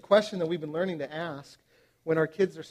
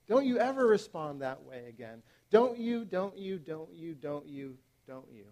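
mock scolding parent; 5 semitones higher, 5 dB louder than usual. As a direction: lecture the kid, then trail off repeating. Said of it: "something like this".

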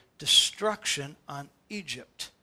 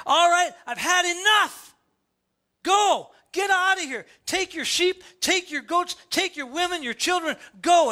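exasperated king bellowing them out; fed-up Pharaoh; 7 semitones higher than usual. Retold or imitated. Pharaoh driving Israel out, furious high shout. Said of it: "Pharaoh's like".

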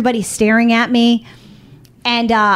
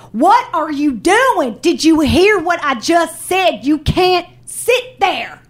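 retold scream; 5 semitones higher, slower than usual. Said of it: "a literal scream".

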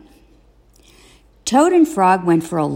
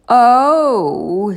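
loud, high startled oh; surprised oh; 5 semitones higher, 5 dB louder than usual. A narrator's reading. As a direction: let the discovery jump out. Toad finds his button.

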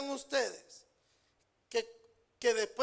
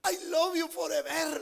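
laughing joke; 3 semitones higher than usual. Real, not acted. Joking wife speaks English.

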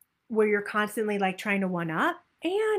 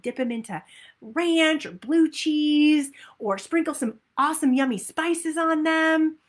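excited; 4 semitones higher than usual. Shown as a demonstration. Coach showing the group an excited inner voice, gushing. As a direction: gush about roasting vegetables. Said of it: "See how you get excited?".

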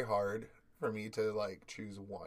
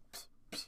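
whispered pss; 10 dB quieter than usual. Retold or imitated.

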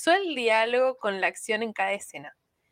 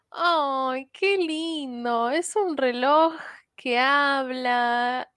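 tierno; 3 semitones higher, much slower than usual. Retold or imitated.

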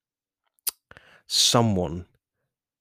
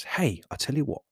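bargaining friendly voice. Acted. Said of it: "this other voice that basically says".

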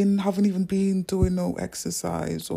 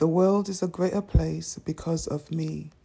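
affirmation read; 4 dB louder than usual. Shown as a demonstration. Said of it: "the affirmation for today is".

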